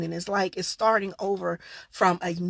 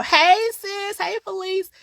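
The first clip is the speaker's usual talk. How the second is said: higher, louder, affectionate greeting in God's voice; God greeting gently; 10 semitones higher, 6 dB louder than usual. Retold or imitated. God greeting the vlogger as his sister, lightly voiced and affectionate. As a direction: call out to her like a fond old friend. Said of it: "sometimes he's real gentle".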